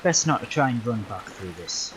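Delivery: talking through hiccups; speech broken by hiccups. Real, not acted. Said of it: "I don't know why I'm, like, hiccuping".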